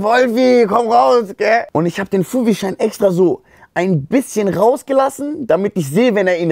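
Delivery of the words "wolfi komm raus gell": high, louder coaxing call; slow, high call to come out; coaxing a hidden friend through a door. Retold or imitated. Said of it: "unter diese Tür und sag".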